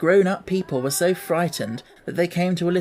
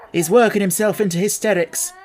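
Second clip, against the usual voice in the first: hurried; 3 semitones higher, 4 dB louder than usual. Acted. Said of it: "she said in a great hurry".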